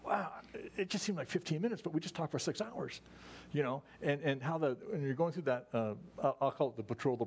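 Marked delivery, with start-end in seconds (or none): 0.0-3.0 mock amazement. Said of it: "we're all surprised".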